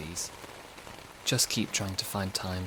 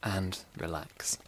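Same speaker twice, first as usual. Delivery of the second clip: slow; 5 dB quieter, much slower than usual. Acted. Guided release, slowed.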